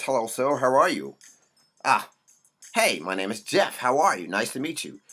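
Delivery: lightly mocking, deferential proper greeting; a hint of meek, overly polite small talk; assimilated polite voice. Black man greeting white folks, mild mock politeness. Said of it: "black males start to talk like this".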